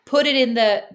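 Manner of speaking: mocking imitation of sister's American accent; American-accented teasing, slowing at the end. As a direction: imitate her sounding American. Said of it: "I heard you with an American accent".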